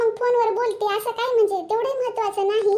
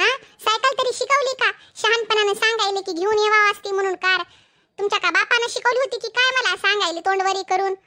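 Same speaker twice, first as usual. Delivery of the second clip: angry scolding. Acted. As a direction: tear into the husband, voice raised. Wife scolding husband on the call.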